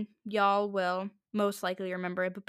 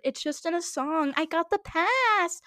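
higher, drawn-out mock protest; mocking excuse; 5 semitones higher than usual. Podcaster mimicking people who excuse the slur, mocking. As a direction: imitate an entitled excuse, stretching it out.

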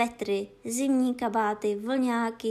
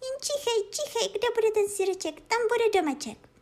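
high, excited kitten urging on; cat urging the dog to sniff; eager cat; 11 semitones higher than usual. Acted. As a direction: coax it in a high thrilled voice.

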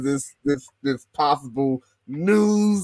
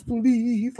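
put-on soft old voice; 9 semitones higher than usual. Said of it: "still put an old soft voice".

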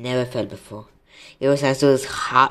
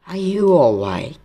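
slow, higher centaur voice; centaur speaking; 5 semitones higher, 6 dB louder, slower than usual. A narrator's reading. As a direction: ask it slowly, pitched up, as a centaur. Centaur's first line.

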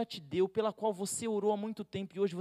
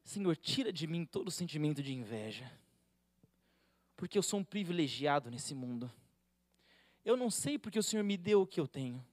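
soft, hushed bedtime prayer; quiet prayer; 4 semitones lower than usual. Shown as a demonstration. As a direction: pray gently into the pillow. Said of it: "fala assim".

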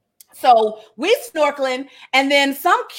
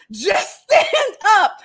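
retold shout; 5 semitones higher, much slower than usual. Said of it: "saying this probably four or five times".

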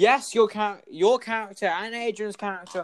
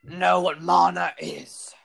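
teacher voice; 3 semitones higher, 7 dB louder than usual. Acted. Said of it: "nailing Wonder's voice".

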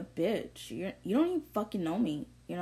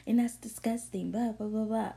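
lightly higher, snooty mock complaint; mocking the lady; 4 semitones higher than usual. Mocking the lady who complained about her, lightly higher. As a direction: mimic a fussy customer tattling. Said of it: "And this lady was like".

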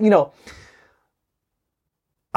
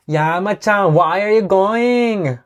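higher, slow imitation of a Colombian Spanish accent; imitating a Colombian accent; 6 semitones higher, slower than usual. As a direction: try out a Colombian accent on the line. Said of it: "I can imitate it". (コロンビア訛りの物まね、高めでゆっくり)

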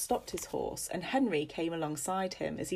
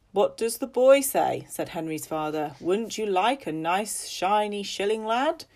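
coaxing; 3 semitones higher, 6 dB louder than usual. Acted. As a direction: tempt the boy with the coin. Father coaxes the boy.

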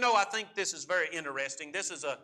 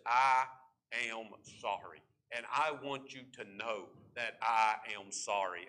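sincere apology; 7 semitones lower, 5 dB quieter than usual. Shown as a demonstration. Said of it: "True repentance says".

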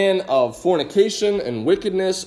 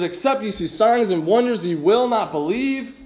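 frustrated rebuke; 2 semitones higher than usual. Shown as a demonstration. Jesus rebuking the crowd who only want miracles, mildly frustrated. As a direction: let a little exasperation show on "will not believe". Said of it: "So there's a frustration there".

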